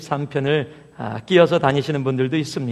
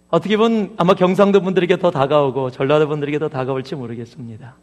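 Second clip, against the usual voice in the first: ordinary talk, nothing marked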